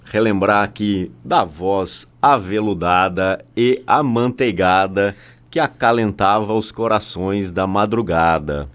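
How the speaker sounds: playful velvety late-night radio host, projected loudly; locutor aveludado de brincadeira. Pretend. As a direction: ham up a buttery radio-announcer greeting. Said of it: "essa minha brincadeira". (voz amanteigada de locutor da madrugada, de brincadeira)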